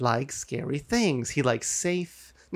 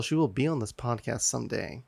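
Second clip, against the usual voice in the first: kinda sultry; 3 semitones lower, 5 dB quieter than usual. Shown as a demonstration. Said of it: "I just said it kinda sultry".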